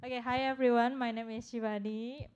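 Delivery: ordinary delivery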